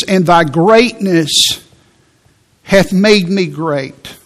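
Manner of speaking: slow, leaning on thy; thy stressed in a slow reverent read; slow scripture emphasis. Shown as a demonstration. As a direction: draw out thy greatness, word by word. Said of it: "notice the thys".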